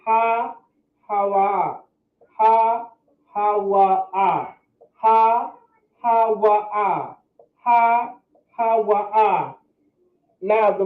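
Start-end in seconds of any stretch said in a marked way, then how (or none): 0.0-1.8 ha-ha-wa said very slowly, every syllable apart; slow syllable demo. Shown as a demonstration. Teacher slowly says the word again for the class. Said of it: "And that's pronounced". 2.4-9.6 Ha, ha, wa, ah, each syllable choppy and separate; choppy syllable drill. Shown as a demonstration. Teacher drills the syllables with the students. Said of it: "that's pronounced".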